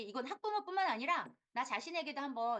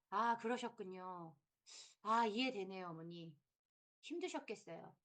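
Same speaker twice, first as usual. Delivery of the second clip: empathetic listening; 3 semitones lower than usual. Shown as a demonstration. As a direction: reassure the upset mother. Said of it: "요런 말투 조언 드립니다". (학부모를 공감하며 부드럽게)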